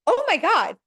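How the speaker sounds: horrified, beg to stop the tape; mortified cry. Retold or imitated. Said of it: "they're like".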